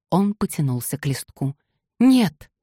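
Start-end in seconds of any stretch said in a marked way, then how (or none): 2.0-2.5 high, loud cry of no; sudden high loud outcry. A narrator's reading. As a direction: shout it out to stop him. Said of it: "вскричала она".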